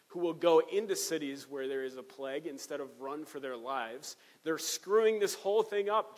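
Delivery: hammed-up worried ruler griping to his governors; the speaker talking like a panicked buddy. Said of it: "But he's like".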